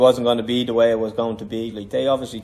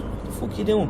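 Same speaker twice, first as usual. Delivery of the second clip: raised pitch, a hammed-up trainer snapping at his boxer; retold corner scolding, pitched up; mock angry coach; 9 semitones higher than usual. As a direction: play the coach telling him off in the corner. Coach scolding him between rounds.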